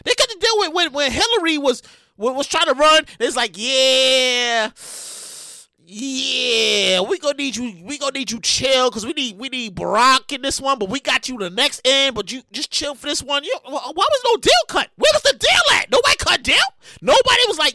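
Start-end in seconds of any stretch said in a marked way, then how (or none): 3.6-13.4 low soothing insider. Retold or imitated. Party insiders soothing Biden.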